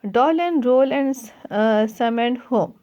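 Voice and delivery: slow, deliberate recitation; measured classroom poem reading. Acted. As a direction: read the verse line slowly for the class. Reading the poem line aloud.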